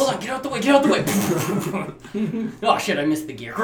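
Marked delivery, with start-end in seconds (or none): 0.0-2.5 high, loud call to clear the road; yelling at traffic. Real, not acted. Driver yelling at a car in his way, high and loud. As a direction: shout at the car ahead while driving.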